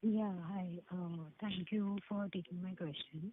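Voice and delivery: faint, far from the mic; speaking too softly to hear; very quiet voice. Real, not acted. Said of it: "Your voice is very low".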